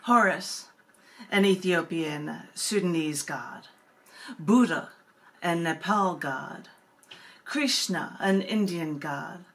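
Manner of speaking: slow, deliberate list of names; poem reading. Acted. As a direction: let each god's name land, then pause. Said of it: "because of your wonderful style".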